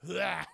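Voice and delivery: short imitated vomit noise; mock retching. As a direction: retch out a quick bleh. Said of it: "R two is just vomiting mud".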